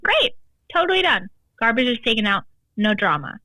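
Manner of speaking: happily imitating her partner's easy yes; cheerful agreement. Partner's happy reply, retold.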